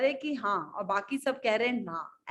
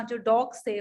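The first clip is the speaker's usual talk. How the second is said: ordinary delivery, nothing marked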